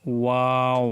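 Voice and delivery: ওয়াও with both lips rounded; rounded waw. Shown as a demonstration. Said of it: "দুই ঠোঁট গোল করে ওয়াও".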